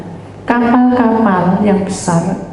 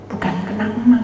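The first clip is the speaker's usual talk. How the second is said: usual speaking voice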